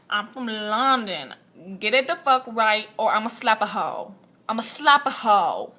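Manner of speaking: put-on loud, slowed London-accent threat; hammed-up Londoner laying down the law; mock London accent. London girl threatening her challenger, loud put-on London accent. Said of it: "crazy bitch from London".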